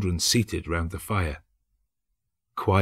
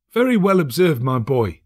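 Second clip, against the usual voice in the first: high, louder, delighted; a father cheering his son; cheerful cry; 6 semitones higher, 5 dB louder than usual. A narrator's reading. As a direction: praise the boy with glee. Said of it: "cried Bob".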